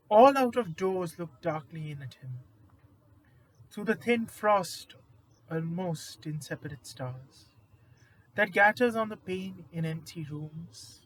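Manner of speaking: measured poem reading with pauses between lines; poetry recitation. Acted. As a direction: recite the verse in deliberate phrases, letting each line settle. Reads a second poem aloud.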